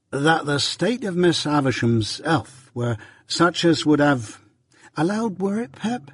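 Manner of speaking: slow, halting search of memory; effortful recollection. A narrator's reading. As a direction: voice climbing as he checks his words. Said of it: "like another effort at remembrance".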